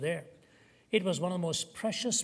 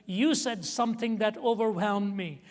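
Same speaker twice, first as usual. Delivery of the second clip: high, loud and tearful; 4 semitones higher, 5 dB louder than usual. Retold or imitated. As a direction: speak through rising tears. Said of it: "then she really started to cry".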